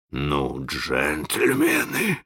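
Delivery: soft, slow, polite address; sweetly courteous, with menace beneath. Acted. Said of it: "любезно обратился к пиратам Крюк".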